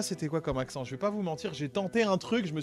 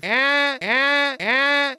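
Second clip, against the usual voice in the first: porte qui grince; 8 semitones higher, 8 dB louder, much slower than usual. Retold or imitated. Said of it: "Une porte qui grince".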